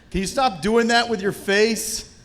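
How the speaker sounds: loud, high imitation of an irate director; retold vehement yelling. Director berating the actor mid-scene, retold yelling. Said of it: "vehemently yelling at me".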